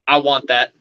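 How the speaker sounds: low, lazy claim; a hint of a relaxed doctor calling dibs; lightly voiced laid-back doctor. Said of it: "Just like that".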